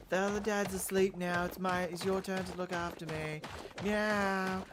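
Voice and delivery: cat voice. Retold or imitated. Cat pleading for attention from the dad, high and loud. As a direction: beg like a needy cat. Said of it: "the cat will come in and just be like".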